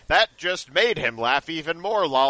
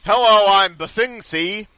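higher, louder, eager newbie voice; a hint of an eager newcomer; character intro voice; 7 semitones higher, 7 dB louder than usual. Voicing the story's poster.

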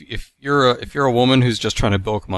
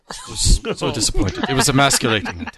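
laughing; 2 semitones higher, 4 dB louder than usual. Real, not acted. Laughing while reading.

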